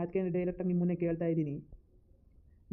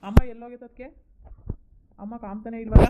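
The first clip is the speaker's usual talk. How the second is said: louder, higher call for mother; loud call asking where mother went; 5 semitones higher, 8 dB louder than usual. Acted. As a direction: shout across the house. Calling loudly for mother.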